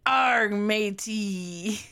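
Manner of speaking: slow hammed-up pirate; drawn-out cartoon pirate arr; old sailor. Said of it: "she's just like".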